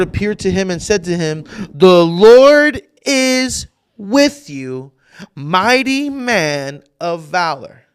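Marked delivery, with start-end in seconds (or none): 1.7-7.8 slow, loud, far-carrying angel voice; booming proclamation. Acted. Preacher booming the angel's words to Gideon. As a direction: proclaim it like a heavenly messenger, slowly.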